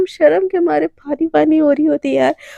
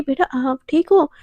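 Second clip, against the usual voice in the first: scolding mother; 3 semitones higher than usual. Acted. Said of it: "गुस्से में ना राधिका को डाँटने लगती है".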